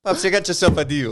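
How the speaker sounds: high, loud put-on voice; dad agreeing to son's deal in a put-on voice; mock dad voice. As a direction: close the deal in a hammed-up voice.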